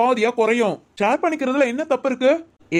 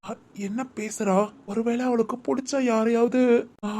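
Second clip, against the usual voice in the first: much softer and slow, to himself; a puzzled aside nobody should hear; muttered aside; 5 dB quieter than usual. Acted. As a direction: wonder it under your breath.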